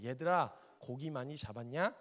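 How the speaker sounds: loud call across the water, slow; mild shout to fishermen; Jesus calling out. Retold or imitated. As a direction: call out to the boat. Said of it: "이렇게 얘기하세요".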